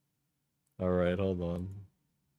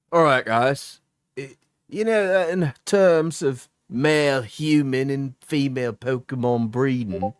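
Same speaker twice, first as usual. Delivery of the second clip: raised, lively streamer voice; Candor's voice; 4 semitones higher than usual. Acted. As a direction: read it like an eager YouTuber. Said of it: "do it in Candor's voice".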